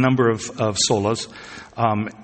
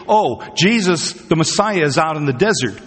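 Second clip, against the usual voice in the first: mock excited rumor; 4 semitones higher than usual. Preacher imitates somebody claiming the Messiah has come, mock excited. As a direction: lightly act out an eager false report. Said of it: "If you hear somebody saying".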